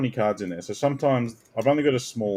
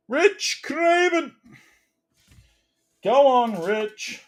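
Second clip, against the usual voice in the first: mock cheer; much slower than usual. Cheering a card.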